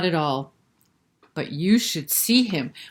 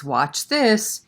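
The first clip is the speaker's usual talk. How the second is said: boastful; 4 semitones higher, 3 dB louder than usual. Acted. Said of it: "Peter says".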